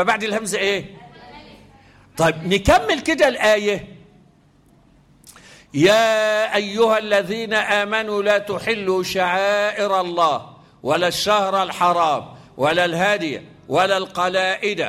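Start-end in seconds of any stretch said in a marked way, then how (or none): 5.7-14.8 measured, melodic tajweed recitation; Quran recitation. Shown as a demonstration. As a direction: recite the verse with tajweed flow. Teacher recites Quran verse.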